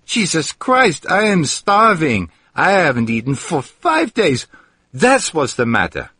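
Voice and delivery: starving man bursts out at the maid, exasperated; exasperated outburst. Acted.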